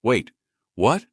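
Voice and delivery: sudden high, loud what; startled. Acted. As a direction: jolt of shock on what. Shopkeeper startled.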